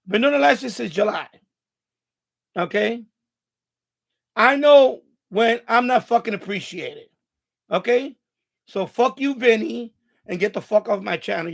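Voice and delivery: angry rant. Real, not acted. Streamer ranting at commenter Vinny.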